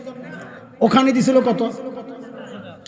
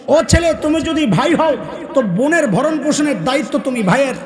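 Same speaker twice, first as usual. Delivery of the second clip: higher, rousing call to the crowd; fervent preaching; 3 semitones higher than usual. Acted. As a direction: preach it, calling out to each son. Preaching refrain to men. (উচ্চস্বরে ওয়াজের সুর)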